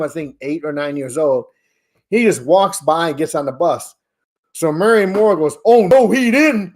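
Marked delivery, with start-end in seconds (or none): 5.6-6.7 slow, sassy, louder disbelief; drawn-out sass; mock indignant. Player's mom reacting to a rookie's snub, slow and sassy.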